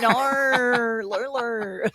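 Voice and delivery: hammed-up Australian friend protesting; Australian accent. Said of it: "I've got an Australian friend".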